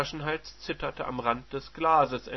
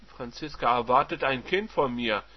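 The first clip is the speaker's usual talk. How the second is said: provocatively smiling; 5 dB louder than usual. Acted. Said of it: "provokant lächelnd".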